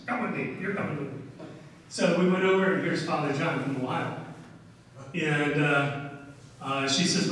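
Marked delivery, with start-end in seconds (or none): 0.1-1.2 mock no-nonsense summons with falling endings; firm command. Shown as a demonstration. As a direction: state it as settled, not asked. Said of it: "It was".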